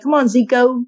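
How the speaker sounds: "Zico" said zee-koh, O clearly at the end; "Come on, Zico" ending on a long O sound. Shown as a demonstration. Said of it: "You gotta put an O at the end".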